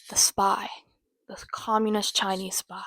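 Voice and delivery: a conspiratorial hush, voiceless; whisper. Real, not acted. Joking to the viewer about spies, whispered. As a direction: whisper it to the camera, fully breathy.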